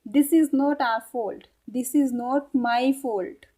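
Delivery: very slow English, each word separate; very slow demo. Shown as a demonstration. Teacher modelling the English reply, very slow. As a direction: drag it out so learners catch each word. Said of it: "तो इसको English में कैसे बोलेंगे?".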